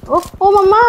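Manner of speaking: high squeal of alarm; squeaky exclamation. Real, not acted. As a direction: yelp it out high and startled. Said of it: "कैसी आवाज निकाल रही हो?".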